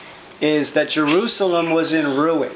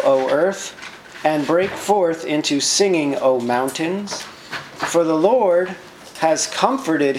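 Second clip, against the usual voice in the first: raised, slower solemn reading of the verse; lifted, measured Bible reading; scripture reading; slower than usual. Acted. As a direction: proclaim the passage like a psalm. Reads scripture aloud.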